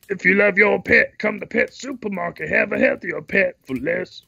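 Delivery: lightly voiced radio ad; a hint of a pitchman. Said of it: "you gotta do that voice".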